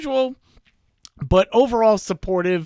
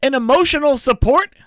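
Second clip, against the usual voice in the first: loud, drawn-out punchline; excited reveal; 6 semitones higher, 6 dB louder, slower than usual. Real, not acted. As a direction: land the reveal big.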